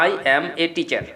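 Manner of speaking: 'I am a teacher' with every word full and separate; full 'am', hard unaspirated t in 'teacher'; local learner pronunciation. Shown as a demonstration. Teacher showing how we say it, plain local pronunciation. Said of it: "আমরা এইভাবে বলতেছি".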